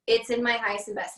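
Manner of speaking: "It's in my highest and best" stated, without a questioning lift; as a statement. Shown as a demonstration. Teacher modelling test wording, "It's in my highest and best" as a statement. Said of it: "I say it as a statement".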